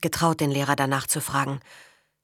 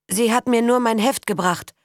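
daring defence; 7 semitones higher, 4 dB louder than usual. Acted. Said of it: "wagte Karl, das Mädchen zu verteidigen".

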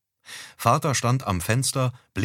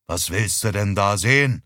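louder, irritated question; getting loud; 4 dB louder than usual. Acted. Father snaps at his wife about the neighbours' garden, louder. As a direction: raise the voice in annoyance. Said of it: "Vater wurde laut".

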